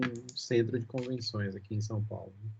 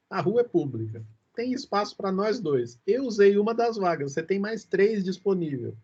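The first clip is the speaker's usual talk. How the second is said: firm case-making, pitched up and louder; retold insistent arguing; 5 semitones higher, 4 dB louder than usual. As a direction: press the point as in a recounted dispute. Retold argument over parking spaces. (argumentação insistente, recontada)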